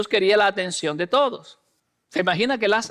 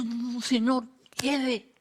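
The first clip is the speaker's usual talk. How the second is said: hushed protest; 7 dB quieter, slower than usual. Acted. Martha voiced objecting.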